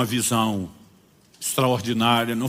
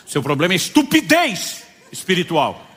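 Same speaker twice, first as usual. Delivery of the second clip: laughing rebuke; 4 semitones higher, 4 dB louder than usual. Real, not acted. Pastor scolds the sleepy man.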